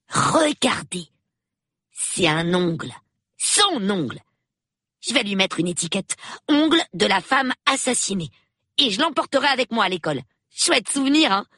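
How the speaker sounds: put-on high, chattering child's voice; excited young boy. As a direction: gush like a boy on a murder hunt. Boy shows off grisly souvenir. (voix aiguë de gamin enthousiaste)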